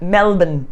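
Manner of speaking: MELBOURNE shortened to "MEL-bn"; mock local-style "MEL-bn" for MELBOURNE; imitated Melbourne pronunciation. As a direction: mimic MELBOURNE as "MEL-bn", swallowing the second syllable. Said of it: "and they were like".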